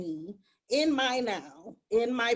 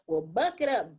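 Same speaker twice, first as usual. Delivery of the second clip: tough love. Retold or imitated. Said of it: "the wisdom to say".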